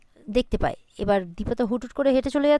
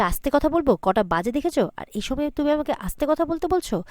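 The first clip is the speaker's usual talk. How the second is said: mildly indignant mimicked questions, pitched up at the start and end; indignant retort; 5 semitones higher than usual. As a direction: throw the request back in mock disbelief. Child indignantly echoes request to quiet down.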